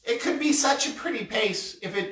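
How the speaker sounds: put-on old woman voice. Shown as a demonstration. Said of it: "I'm just gonna keep my normal one".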